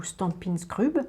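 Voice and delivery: Stampin' Scrub said slowly the French way, "stan-pine skrub" with a French r; Frenchify Stampin' Scrub, skrub with a rolled French r; French accent. Shown as a demonstration. Crafter jokingly renames the tool to viewers, slow French accent. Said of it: "avec l'accent français".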